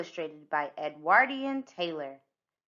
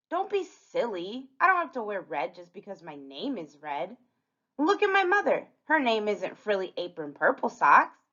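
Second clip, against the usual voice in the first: lightly voiced child character, dismissive; defensive Little Red; 3 semitones higher than usual. Red arguing she can wear blue, defensive. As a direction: make the case as a mildly indignant Red.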